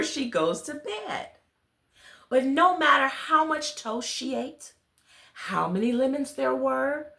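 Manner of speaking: put-on gentle storybook reading to children; story narration. A narrator's reading. Reader telling children a bedtime story, gentle storybook narration. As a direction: read it like a bedtime tale to little listeners. Reads picture book aloud.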